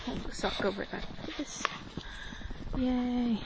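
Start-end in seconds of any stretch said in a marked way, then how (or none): 0.0-1.6 whispering. Real, not acted. Whispering while filming.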